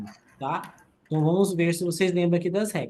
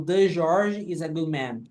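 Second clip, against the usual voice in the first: slow, deliberate wrong version with "The George"; wrong example; 2 semitones lower, slower than usual. Shown as a demonstration. Teacher showing students the mistake to avoid, slow and careful. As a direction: stress "The" in "The George" to show the error. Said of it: "Eu não falo".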